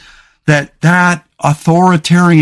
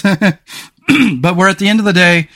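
losing voice. Real, not acted. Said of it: "sorry, I'm losing my voice".

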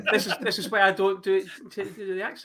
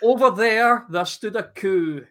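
mock poem recital; 3 dB louder than usual. The speaker reads his birthday poem to Cal, mock-grand recital. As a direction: recite the silly poem like a grand performance, then let it tail off. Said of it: "It goes like this".

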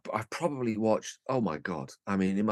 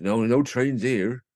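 station guard voice; 3 dB louder than usual. Retold or imitated. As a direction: drag it out like a wary rural porter. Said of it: "He goes".

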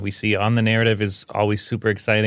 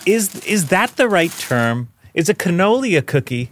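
mock-serious question; 7 semitones higher than usual.

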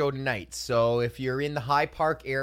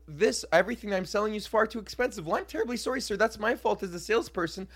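lightly higher, overly polite mock apology; mock apologetic salesman; 4 semitones higher than usual. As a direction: fake sorry to a cheap customer. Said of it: "But I flip it into".

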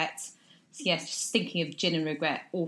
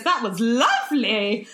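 slow, sing-song praise; slow mock nursery-teacher approval; sweet teacher praise; 3 semitones higher, 6 dB louder, slower than usual.

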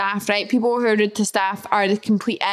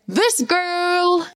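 mock proud; 7 semitones higher than usual. Real, not acted. Self-mocking punchline.

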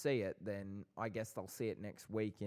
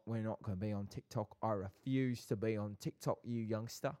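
lightly put-on South London accent; chatty farewell in a South London accent. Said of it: "your South London accent".

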